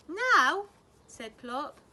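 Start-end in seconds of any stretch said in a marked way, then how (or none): 0.1-0.7 high and loud, disbelieving Now?; a surprised owlet's outburst; startled question. A narrator's reading.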